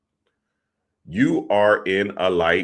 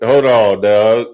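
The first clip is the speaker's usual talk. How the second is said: loud, startled reaction to the wife showing up; loud hold on; 3 semitones higher, 11 dB louder, slower than usual. Retold or imitated. Viewer shouting at the screen, loud and startled. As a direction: bark it out like you can't believe it. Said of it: "I'm like".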